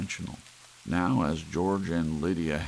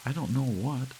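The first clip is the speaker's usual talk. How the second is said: wife's voice; 9 semitones higher than usual. Acted. Wife pointing out lions to husband, high voice. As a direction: point it out to him, high and keen.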